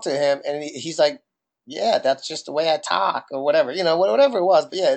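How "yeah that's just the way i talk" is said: imitated Boston accent, long A. Doorman explaining how they talk, light Boston accent. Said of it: "long emphasis on the A".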